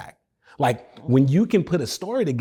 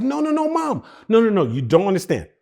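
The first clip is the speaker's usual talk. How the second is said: high, urgent begging; pleading teen; 5 semitones higher than usual. Retold or imitated. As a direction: beg mom not to say no.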